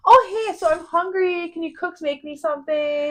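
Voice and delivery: high, sing-song buttering-up voice; fake sweet request. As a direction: sweet-talk the cooks for a meal. Sweetly asking cooks for food.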